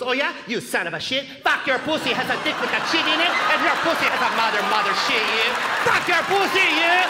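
put-on loud accented tirade, climbing at the end; hammed-up mom throwing mismatched curses; mom cursing back. Mom in a curse fight with a salesman, loud mock-furious accented cursing. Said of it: "my mom started cursing back".

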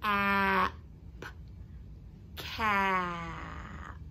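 each sound "n", "a" said separately, then blended into "nut". Shown as a demonstration. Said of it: "say the blend and then add".

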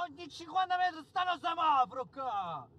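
high exasperated exclaim. Real, not acted. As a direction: throw it up in frustration. Complaining about traffic lights.

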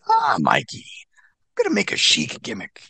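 lightly voiced grand announcement, opening high; James Mitchell. James Mitchell to Mikey about his gimmick, lightly mimicked. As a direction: put on his eager voice, high on the first words. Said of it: "He says to me".

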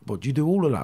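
imitating wide-eyed kids, lightly; amazed cellmates asking about the drugs, mock surprise; mock amazement. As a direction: pitch jumps high on "do you do all of that". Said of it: "They're like".

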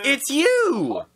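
loud, high burst of recognition; excited exclamation. Pretend. Player greets a figure in the game, excited exclamation. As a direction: cry it out high and drawn out.

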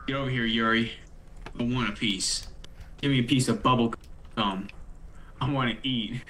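low, hungry monster growl; deep monster voice. Acted. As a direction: lurk and demand a piece, deep.

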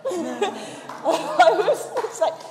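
laughing through the words. Real, not acted. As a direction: breaks into a real laugh. Laughing while retelling the exchange.

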